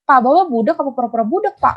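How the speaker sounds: fast, sarcastic jab; retold fast sarcastic jab at a deaf-acting debtor; fed-up jab. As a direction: snap at him out of annoyance. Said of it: "saking gue gedeknya".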